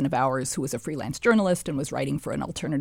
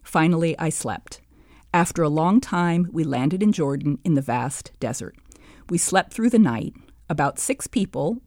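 put-on reading her old diary aloud, steady; measured reading of a diary entry. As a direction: read the child's entry evenly.

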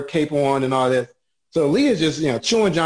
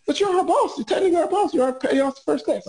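laughing tease; 14 semitones higher, faster than usual. Retold or imitated. Teasing the boss, laughing.

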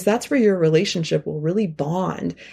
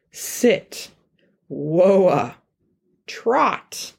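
commands; much slower than usual. Shown as a demonstration. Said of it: "We can teach them".

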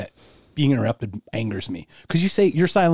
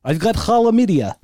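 mock proud announcement; 8 semitones higher than usual.

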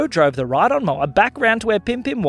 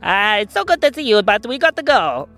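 sheepish mischief-maker; 11 semitones higher than usual. Acted. Pim Pim greets Kai's dad before escaping, sheepish. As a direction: stall politely, then excuse yourself.

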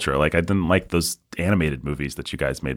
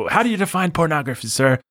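questioner's voice; 10 semitones higher, faster than usual. Retold or imitated. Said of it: "Some senator famously said".

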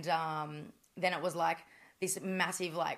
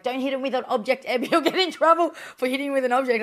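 high, loud warning from a friend; raised voice, imitating an alarmed friend; retold urgent warning; 7 semitones higher, 9 dB louder than usual. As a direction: call out a warning over the commotion.

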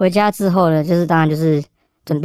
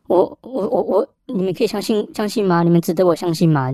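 frightened stammer; 3 semitones higher than usual. Retold or imitated. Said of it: "他看起来很惊恐".

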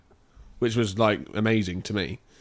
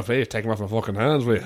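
put-on mild Irish accent that slips toward Jamaican; a light, off-target Irish accent. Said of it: "Irish again".

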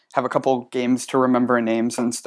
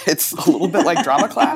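laughing; 3 semitones higher than usual. Real, not acted. Laughs at her own joke.

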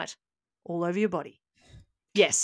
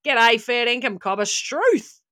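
exaggerated Aussie lingo; 5 dB louder, slower than usual. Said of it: "Constantly say Aussie lingo like".

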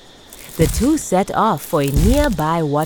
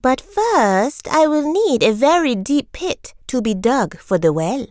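tortoise voice; 6 semitones higher than usual. Acted. Tortoise character voice.

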